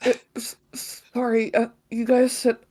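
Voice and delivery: fumbling nerdy hero; earnest anime hero, flustered; anime protagonist voice. Acted. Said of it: "my anime protagonist voice".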